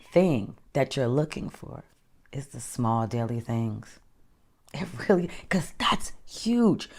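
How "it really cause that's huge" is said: breathy whispered aside. Real, not acted. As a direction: drop to a hushed whisper. Whispered aside mid-pep-talk.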